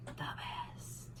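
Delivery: barely a whisper, choked up. Real, not acted. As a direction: voice drops to a breath. Emotional pause, whispered.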